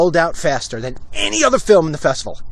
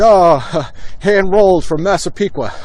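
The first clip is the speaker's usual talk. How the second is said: mocking laugh; 3 semitones higher than usual. Baldwin mocks the gift.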